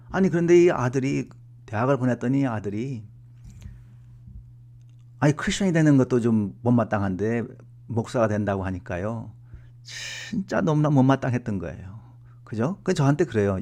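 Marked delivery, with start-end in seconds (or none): none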